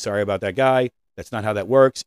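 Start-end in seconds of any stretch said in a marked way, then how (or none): 0.0-0.9 "Sorry about that guy" rushed together as one word; run-on apology. Shown as a demonstration. Coach showing a rushed apology, a run-on sorry. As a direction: run the words together without a break. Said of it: "It's not a run-on sentence".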